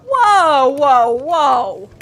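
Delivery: high startled whoa, rising to a squeak; high hammed-up surprise; mock surprised Harry. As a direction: act shocked and innocent. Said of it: "Harry's like".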